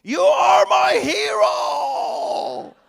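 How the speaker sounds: high, slow, shouted cry; retold yell. Inmate yelling at the pastor he recognizes, in a high, slow shout. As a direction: belt it out like a thrilled inmate. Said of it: "yells at the top of his voice".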